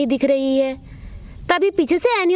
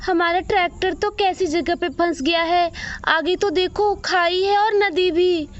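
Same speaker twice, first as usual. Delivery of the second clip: put-on kids calling out to the driver in worry; worried child voice; 3 semitones higher than usual. Children tell Ramu kaka the tractor is stuck, worried.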